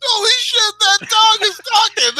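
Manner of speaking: high, loud, slowed astonishment; mock amazed boss. Acting out the boss seeing a talking dog, high loud amazement. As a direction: gasp it out like a stunned boss.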